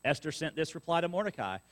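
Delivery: measured reading of the Bible to the church; scripture reading. Acted. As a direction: read the passage out steadily to the congregation. Reads scripture aloud to congregation.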